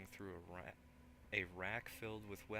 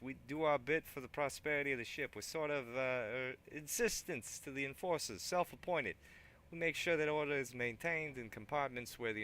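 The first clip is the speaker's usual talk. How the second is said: higher, louder put-on thug; 5 semitones higher, 8 dB louder than usual. Thug eyes the weapon rack, loud put-on voice. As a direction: keep the thug voice going. Thug explains his gang.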